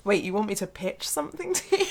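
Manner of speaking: laughing through the quote; mock Rory, giggling in disbelief. Quoting Rory Gilmore's pitch scene through laughter.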